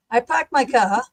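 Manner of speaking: park and car without R's, Boston style; Boston accent. Shown as a demonstration.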